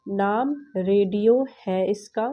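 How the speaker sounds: slow, careful poem reading; slow reading aloud. Shown as a demonstration. Teacher to pupils, reading the poem line slowly. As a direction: read it slowly for the class, word by word. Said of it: "यहाँ पर है नाम radio है इसका".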